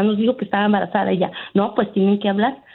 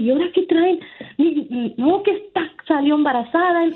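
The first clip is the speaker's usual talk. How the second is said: higher, fretful quoted voice; imitating crying sister-in-law; 5 semitones higher than usual. Caller imitates her crying sister-in-law, higher and fretful. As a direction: mimic the upset mother's whine.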